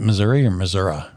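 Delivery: "Missouri" ending in ee, then "Missouri" ending in uh; two pronunciations contrasted. Shown as a demonstration. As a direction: contrast the last vowel of "Missouri". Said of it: "is it Missouri or Missouri".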